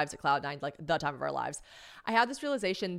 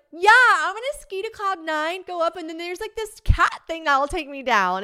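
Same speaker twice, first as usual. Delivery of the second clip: high, loud eager shout; shouted explanation; 10 semitones higher, 9 dB louder than usual. Retold or imitated. Skier tells James her plan, shouting it out. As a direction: call the plan across the slope.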